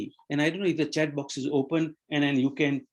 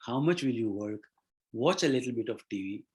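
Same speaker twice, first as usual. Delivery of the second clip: tempting inner voice; 5 semitones lower than usual. Retold or imitated. Teacher voicing the inner voice tempting him to stop, low coaxing. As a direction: coax gently like a voice in your head. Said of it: "the voiceover says".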